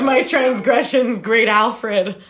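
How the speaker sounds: mock repentance. Fan begging a parody singer's forgiveness, mock repentant. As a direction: beg your idol's pardon in pretend devotion.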